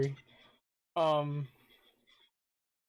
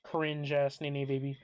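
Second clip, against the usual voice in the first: hiccuping while talking; hiccups. Real, not acted. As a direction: talk through the hiccups. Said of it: "Now I got the hiccups".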